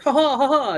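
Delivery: high, loud mock laughing; put-on high laugh. Improviser pretending to fly around, high mock laugh. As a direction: laugh in a silly high character voice. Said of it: "like, fly around like".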